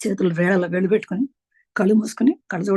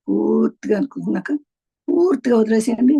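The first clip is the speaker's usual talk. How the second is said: exhale cue; 3 semitones higher, 4 dB louder than usual. Shown as a demonstration. Leads a full exhale.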